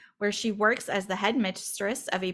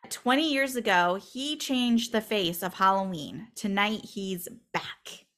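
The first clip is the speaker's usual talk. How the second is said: horror trailer voice. Shown as a demonstration. Reading dramatic movie taglines.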